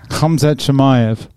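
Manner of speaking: "Khamzat Chimaev" sounded out slowly and clearly; pronunciation model. Shown as a demonstration. Dad showing his child the fighter's name, slow careful "Khamzat Chimaev". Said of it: "see if you can pronounce that name".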